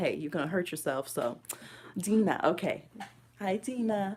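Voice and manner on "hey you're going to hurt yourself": mama voice, admonishing tone. Retelling a warning to a baby knocking things over: mama voice. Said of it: "I had to use my mama voice".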